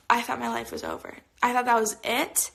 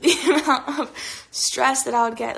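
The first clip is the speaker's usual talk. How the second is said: laughing; 5 dB louder than usual. Real, not acted. Laughing at own rambling.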